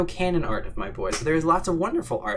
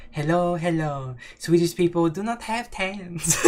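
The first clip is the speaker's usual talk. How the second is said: imitated Swedish accent, slightly higher; Nikki Doll; 4 semitones higher than usual. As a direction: put on a lilting Swedish accent. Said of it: "when Nikki Doll, she says".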